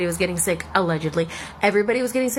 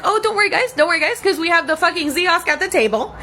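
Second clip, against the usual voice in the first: high mock-reassuring voice; sarcastic sing-song company line; mocking the corporation; 5 semitones higher than usual. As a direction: mimic the chain's fake cheer. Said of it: "they're like".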